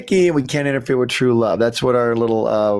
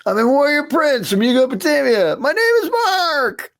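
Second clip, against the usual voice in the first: alien prince voice; 13 semitones higher than usual. Retold or imitated. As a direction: play it as a lofty warrior prince. Repeats the alien prince's line.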